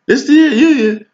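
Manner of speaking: high gushing mock voice; mocking excited client. Mimicking a client hyped about her union. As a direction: gush it like a starry-eyed client. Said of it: "that's how y'all talk about it".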